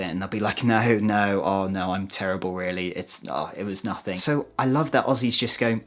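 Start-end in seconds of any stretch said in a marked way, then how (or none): 0.6-4.2 low, quiet, self-deprecating mumbling imitation; bashful mock protest, trailing softer; modest, uncomfortable. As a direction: softly wave the praise away. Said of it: "they'll be very modest and uncomfortable about it".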